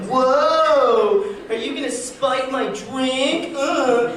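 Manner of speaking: high, slow mock comedian voice; hack comedian voice. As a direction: ham up a cheesy stand-up bit. Mocking stereotypical comedian joke.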